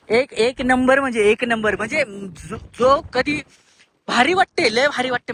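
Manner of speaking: can't contain the excitement; excited exclaiming. Real, not acted. Vlogger showing the old mansion ruins, excitedly. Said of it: "मी जास्त ओरडतोय".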